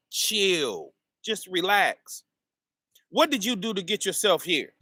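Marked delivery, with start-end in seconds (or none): 0.1-2.2 calm advice. Retold or imitated. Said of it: "Who's saying".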